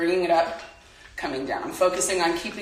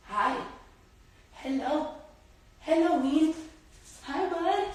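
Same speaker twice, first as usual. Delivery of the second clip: cooing pet greeting; 6 semitones higher, 6 dB quieter, slower than usual. Real, not acted. Greeting the dog softly.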